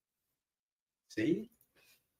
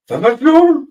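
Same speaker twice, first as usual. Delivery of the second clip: Firestorm shouted high in mock German; German accent; 11 semitones higher, 8 dB louder than usual. Shown as a demonstration. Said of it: "Yes, I'm butchering it".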